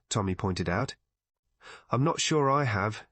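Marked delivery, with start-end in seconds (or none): 1.9-3.0 darkly. Acted. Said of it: "said Tuppence darkly".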